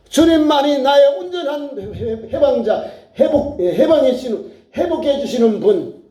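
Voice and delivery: urgent, rhythmic listing; fervent preaching. Real, not acted. Preacher pleading to God to solve and restore, fervent preaching. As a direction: pile up the phrases like a pleading prayer.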